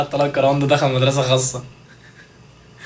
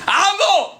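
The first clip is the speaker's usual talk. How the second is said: put-on child's call; much slower than usual. Child calling out.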